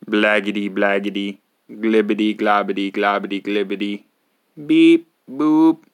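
slow, loud nonsense babble with squeaks; silly gibberish. Acted. Reader forced to say the nonsense words, loud gibberish. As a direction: ham up the gibberish, wildly. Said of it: "make silly sounds".

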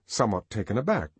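ordinary delivery

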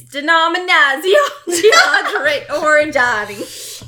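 mock Italian accent. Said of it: "her Boston Italian accent".

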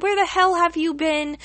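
mad. Retold or imitated. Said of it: "she was very mad at Septera Angelo".

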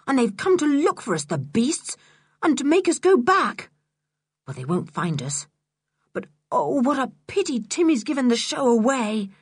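a hint of a worried schoolboy; Julian's voice.

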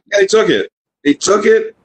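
whiny high Cap. Retold or imitated. Scared Cap retelling loss.

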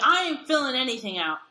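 loud stubborn refusal; angry refusal. Retold or imitated. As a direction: shout it back stubbornly. Angry man refusing again.

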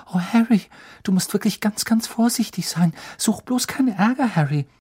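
put-on girl anxiously pleading with her friend; anxious plea. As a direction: beg him to be careful.

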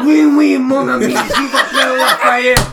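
put-on French accent with gusto. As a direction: ham up a Frenchman's greeting. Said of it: "His card says French accent".

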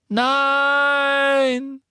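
high, loud, drawn-out scream of no; anguished scream. A narrator's reading. Harry screams in his nightmare, anguished. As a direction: tear the word out in horror.

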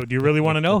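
retold blunt challenge; loud challenge. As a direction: dare him to hear it. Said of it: "I go".

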